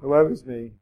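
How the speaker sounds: mock moaning self-pity; hammed-up helpless moan; helpless whine. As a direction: whinge that you can't do it. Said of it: "like a helpless person".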